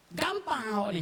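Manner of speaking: a mild mock scolding, stress on Gampang; angry. Shown as a demonstration. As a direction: snap Gampang at a friend in mock anger. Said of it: "kita marah tu".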